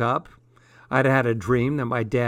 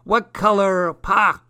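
put-on high-pitched caller with a Scottish accent; 7 semitones higher, 4 dB louder than usual. A narrator's reading. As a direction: pitch it up in a Scottish accent, cut off mid-word. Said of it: "bloke with a Scottish accent".

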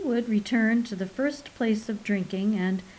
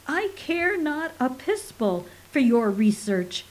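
thundering; 3 semitones higher than usual. Acted. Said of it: "Mintkill thundered".

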